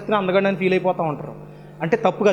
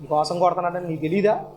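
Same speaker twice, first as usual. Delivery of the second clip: put-on flattered girl; 5 semitones lower, 6 dB quieter than usual. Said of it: "మరి మురిసిపోతాను".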